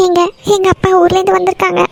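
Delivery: halting, tearful explanation. Acted. Wife telling husband her father has come, tearful. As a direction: get it out while holding back sobs. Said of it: "அழுதுட்டு இருக்க".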